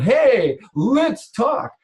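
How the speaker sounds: a bright, mock-friendly "let's talk"; friendly handshake greeting. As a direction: reach out as if offering a handshake. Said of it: "Shake your hand speech".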